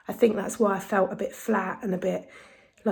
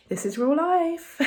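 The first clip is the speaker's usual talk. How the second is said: laughing; 7 semitones higher than usual. Real, not acted. Laughing at the messy background.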